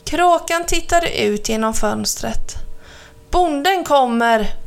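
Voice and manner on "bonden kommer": ropar. Acted. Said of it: "ropade han".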